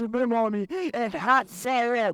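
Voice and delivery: very slow proclamation rising high; climactic revelation. Retold or imitated. Preacher revealing the doctor's name to listeners, building proclamation. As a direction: stretch the words out, building to a ringing finish.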